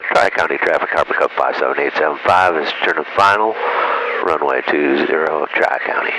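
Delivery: low, steady radio call; pilot voice. Shown as a demonstration. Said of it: "that's my pilot voice".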